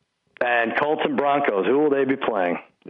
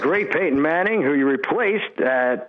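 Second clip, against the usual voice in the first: higher, pumped wrestling interviewer voice; Vince McMahon; 5 semitones higher than usual. Pretend. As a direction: hype it like a wrestling promo. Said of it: "you don't let Vince McMahon down like that. He's trying to interview you".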